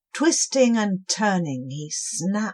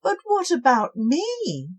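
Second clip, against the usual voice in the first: high, small pleading voice; plaintive snail; 10 semitones higher, 4 dB louder than usual. Acted. Captured snail pleading with the cobwobblies. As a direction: ask feeling left out. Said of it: "asked the captured snail".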